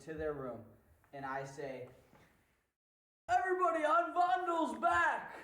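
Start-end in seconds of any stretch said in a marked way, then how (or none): 3.3-5.4 very high, loud excited voice; mimicking Vondel. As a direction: shriek it like an eager Vondel. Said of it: "I just wanted to mimic your voice".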